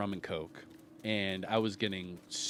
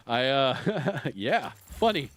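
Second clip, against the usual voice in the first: nervous giggling; 3 semitones higher, slower than usual. Retold or imitated. Drunk passenger giggling nervously at the angry cab driver. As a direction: laugh it off nervously, words broken by giggles. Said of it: "like, nervously, like, giggling".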